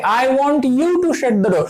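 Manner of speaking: very slow, word by word, like dictating; slow dictation. Shown as a demonstration. Teacher reading an example sentence to the class, very slow. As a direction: spell the example out slowly for students. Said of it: "हम किसी और को कह रहे हैं".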